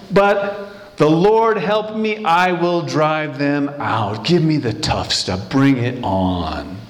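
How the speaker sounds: slow, drawn-out defiance, sinking in pitch; lightly acted old warrior's challenge; Caleb. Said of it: "says eighty-five-year-old Caleb".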